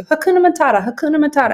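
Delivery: high, sing-song Hakuna Matata; locals' greeting. Retold or imitated. Locals greeting her daily, high and breezy. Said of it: "They actually say this on the daily to you".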